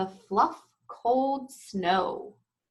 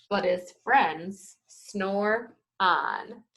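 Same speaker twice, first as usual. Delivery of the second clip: put-on reading to children. A narrator's reading. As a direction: read it gently to little listeners. Story read to children.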